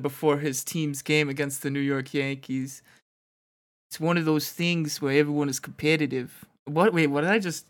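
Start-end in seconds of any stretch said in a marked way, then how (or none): 3.9-6.4 lightly voiced Jersey mobster; a hint of a Jersey tough guy, slipping; Tony Soprano. Co-host reading the player's quote, slipping Jersey mobster accent. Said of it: "that was a Tony Soprano".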